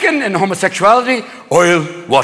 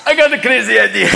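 lightly voiced stoned cardinal; a touch of the pot smoker; loaded cardinal. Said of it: "they're inside getting a little loaded".

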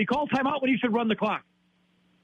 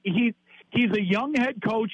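slow, sarcastic parroting of the fans' excuse; mock excuse-making. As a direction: drag it out like a tired old excuse. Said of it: "So you say he".

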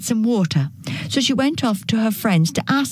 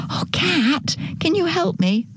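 high-pitched appeal to a friend; pleading hen; 9 semitones higher than usual. Acted. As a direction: call out high, asking for help. Hen begs cat for help.

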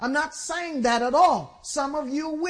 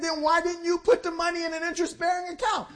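king's rebuke; 4 semitones higher, faster than usual. Acted. King rebukes servant.

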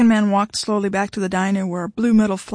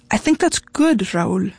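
trying to be supportive; slower than usual. A narrator's reading. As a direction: offer encouragement with effort. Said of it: "trying desperately to be supportive".

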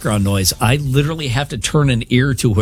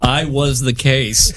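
laughing punchline; 2 semitones higher, much slower than usual. Real, not acted.

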